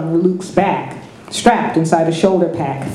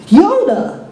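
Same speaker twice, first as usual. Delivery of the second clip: higher, louder startled cry; gasped; 11 semitones higher, 4 dB louder than usual. A narrator's reading. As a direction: blurt the name in shock. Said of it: "Luke gasped".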